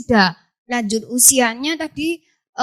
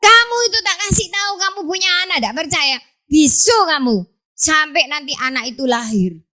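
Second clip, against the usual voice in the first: angry angel; 4 semitones higher than usual. Acted. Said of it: "Gabriel itu marah".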